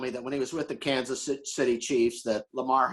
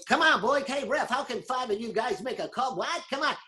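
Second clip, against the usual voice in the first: high, excited coach yelling at the ref; hollering coach; 10 semitones higher than usual. Retold or imitated. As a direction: bark at the referee like a sideline coach. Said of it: "but he was".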